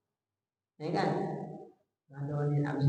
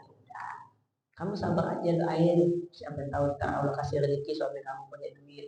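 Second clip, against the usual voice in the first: softer, patient reassuring voice; gentle fatherly advice; 4 semitones lower, 5 dB quieter than usual. Shown as a demonstration. Father gently calming daughter about broke husband, soft and patient. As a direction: soothe a worried daughter gently. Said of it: "kita bilang".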